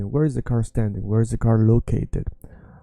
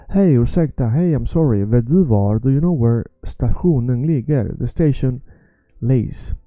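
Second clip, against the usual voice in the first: louder, polite traveller asking the way; asking a stranger; 4 dB louder than usual. Acted. Traveller asking a stranger for the station, louder. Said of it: "So check this out".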